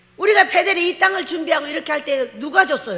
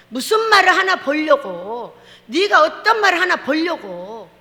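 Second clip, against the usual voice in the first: slow, deliberate stress on 말을; slow emphasis; 3 dB louder, slower than usual. Real, not acted. Preacher pressing 말을 slowly to the congregation. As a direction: lean on 말을, each syllable weighed. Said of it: "emphatic slow repeat".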